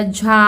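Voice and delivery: झा with a long आ; pronunciation demo. Shown as a demonstration. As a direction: sound out झा for pupils. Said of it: "उच्चारण हो गया".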